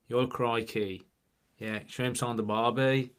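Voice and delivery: mock Aussie with drawn-out vowels; teasing impression of an Australian accent. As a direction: imitate a stock Australian, lightly. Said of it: "all Australians sound the same".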